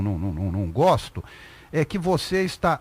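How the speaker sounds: ordinary talk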